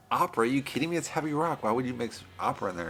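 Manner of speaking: lightly acted protest; mock incredulous. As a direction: object as a baffled producer would. Acted producer objecting to opera.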